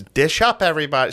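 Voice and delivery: lightly imitated dinner call; imitated mom's yell. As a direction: call the family in like mom. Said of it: "I yell it before she yells it".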